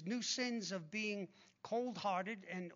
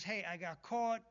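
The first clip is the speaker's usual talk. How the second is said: careless shrug. Retold or imitated. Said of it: "a worldly sorrow is".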